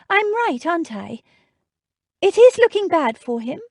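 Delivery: fearful pleading questions; anxious. A narrator's reading. Jane anxious.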